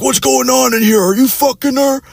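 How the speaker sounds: squeaky high-pitched barging stepdad; mock the boyfriend in a shrill falsetto; shrill mocking voice for the mom's boyfriend; high mock angry dad. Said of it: "He's like".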